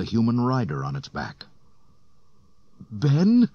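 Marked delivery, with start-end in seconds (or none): 2.9-3.5 very high, loud questioning call; high loud call of a name. A narrator's reading. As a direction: call out into the storm. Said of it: "called out".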